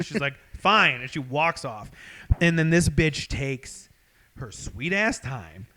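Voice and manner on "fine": curt, higher-pitched huff; one exasperated word, acted out; imitated furious girlfriend. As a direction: give in with mock annoyance. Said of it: "she's furious".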